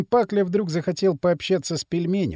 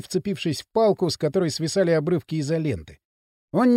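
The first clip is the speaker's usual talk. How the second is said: plain reading voice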